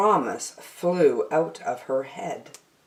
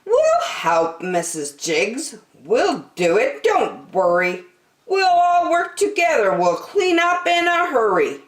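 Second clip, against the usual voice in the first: put-on higher, quick kid voices; eager child friends; 8 semitones higher than usual. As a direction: reassure the mother brightly. Friends offer to help clean.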